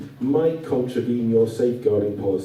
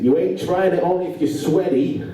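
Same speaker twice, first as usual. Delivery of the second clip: a light imitation of a broad American accent, a little higher; a hint of a broad American shop assistant's accent; 5 semitones higher than usual. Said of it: "in a very broad American accent".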